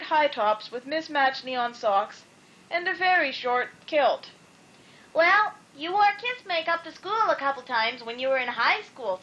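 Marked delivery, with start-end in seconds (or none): 5.1-9.2 teasing. A narrator's reading. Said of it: "said Luella".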